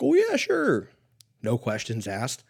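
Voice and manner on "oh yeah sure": much higher, louder cheery shopkeeper; chirpy clerk voice, hammed up; mock cheery clerk. Gun shop clerk cheerfully selling one shell.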